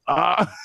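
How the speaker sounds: high mock "ah" of shock; startled cry. Viewer retells wincing at the broken fingers, mock shocked cry. Recounts own reaction to finger breaking.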